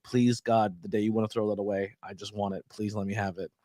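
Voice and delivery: low, soft mock begging; hushed pleading. Co-host acts out begging gas station staff, hushed plea. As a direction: plead under your breath, dropping away softly.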